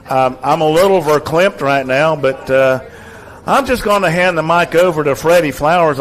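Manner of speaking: a light imitation of a choked-up announcer; Mike New impression. Retiring announcer thanking Cougar fans, lightly imitated. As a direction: lightly voice the old announcer signing off. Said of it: "I'm gonna do my best Mike New impression here".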